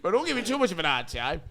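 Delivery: a touch of the boss's voice; lightly mocked manager line; a hint of the smug boss; imitating the boss. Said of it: "that's how he says it".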